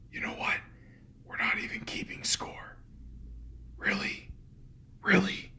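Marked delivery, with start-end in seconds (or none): 3.8-4.3 whispered. Shown as a demonstration. ASMR host testing the line in a whisper. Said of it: "Does that make it sound any better?". 5.0-5.5 loud, full-voiced and low, breaking the whisper. Shown as a demonstration. ASMR host breaking the whisper to test the word aloud. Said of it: "Does that make it sound any better?".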